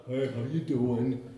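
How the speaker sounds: slow Southern country bumpkin greeting; country bumpkin accent. Acted. Preacher playing a country bumpkin saying hello, Southern hick accent. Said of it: "they were sort of country bumpkins".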